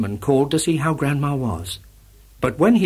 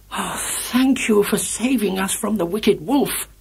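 grandma voice; 7 semitones higher than usual. A narrator's reading. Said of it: "said Grandma".

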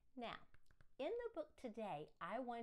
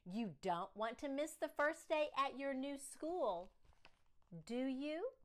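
father coaxing; 4 semitones higher than usual. Acted.

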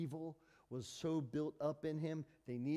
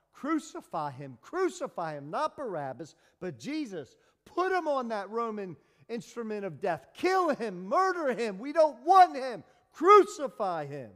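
rising furious mob yell, far louder; escalating shouted chant, loud and high; crowd shouting; 8 semitones higher, 13 dB louder than usual. Retold or imitated. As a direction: roar it like a mob demanding death. Preacher voicing the crowd's cry.

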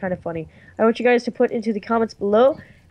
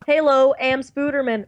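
N=Spooderman/character; Spooderman meme voice. Retold or imitated. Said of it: "who Spooderman is".

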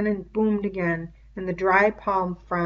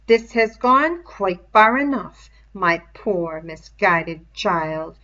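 louder, slow scolding headmaster; stern schoolmaster; 6 dB louder than usual. Acted. The beast scolding Simon like a schoolmaster, louder and slow. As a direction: lecture him like a cold, threatening teacher. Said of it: "spoke in the voice of a schoolmaster".

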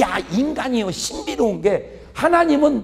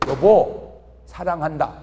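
awkward tender confession; 5 semitones lower, slower than usual. Retold or imitated. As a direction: say it like the first time ever. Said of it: "허리를 꼭 껴안고 얘기한". (서툴고 수줍게 사랑 고백)

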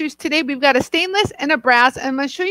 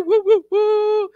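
cheer; 6 semitones higher than usual. Real, not acted. Cheering a viewer's arrival.

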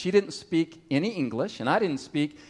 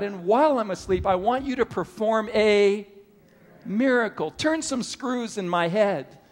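mock pleading prayer; 4 semitones higher than usual. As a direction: ham up a lazy believer begging God. Imagined bedtime prayer for miracle.

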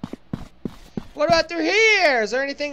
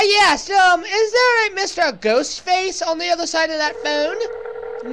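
put-on British accent; 4 semitones higher than usual. Talking to Ghostface over a static-filled phone, British accent. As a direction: do a mock British accent down the line. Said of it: "this is my British accent".

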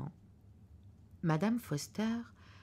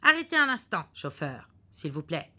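husband ordering the chauffeur, urgent; urgent stop; 6 dB louder than usual. Acted. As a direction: insist the car stop now. Husband stops the car.

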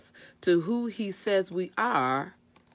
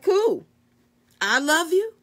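high, louder, lightly acted reassurance; God's easygoing reply; 9 semitones higher, 5 dB louder, slower than usual. God answering a self-doubting believer, high and breezily accepting.

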